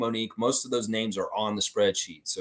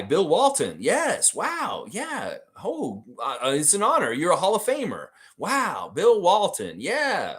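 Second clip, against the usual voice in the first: starstruck, much higher pitched phone voice; mock phone call impression; 6 semitones higher than usual. Raptors exec on the phone with Bill Walton, starstruck and high. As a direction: gush like a fan who got a call from a Hall of Famer. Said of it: "Nameless wants an impression".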